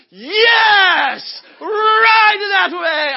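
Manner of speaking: high, drawn-out, full-blown shout; pumped. Retold or imitated. Runner sends cyclist on her way, pumped. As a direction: bellow it slowly, hugely pumped up. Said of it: "I mean, I am pumped".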